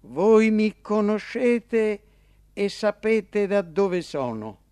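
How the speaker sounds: esclamato più alto e forte, lento; esclamazione. A narrator's reading. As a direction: proclama ad alta voce, scandendo. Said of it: "esclamò e disse". (Gesù nel tempio esclama con forza)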